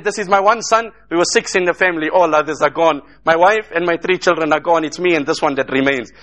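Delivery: low, subdued account of loss; retold grief. Retells bereaved man listing his losses.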